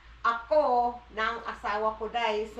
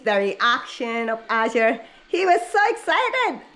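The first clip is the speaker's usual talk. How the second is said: loud, eager retelling; excited; 6 dB louder than usual. Real, not acted. Wife telling husband about the excited baby, louder and eager. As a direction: tell it bursting with excitement.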